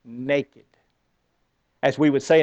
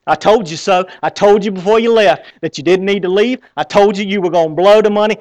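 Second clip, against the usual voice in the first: scolding father; 5 dB louder than usual. Acted.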